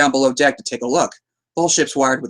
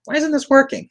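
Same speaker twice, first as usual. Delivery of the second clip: mock Joker; 13 semitones higher than usual. Imitating the Joker at the hospital.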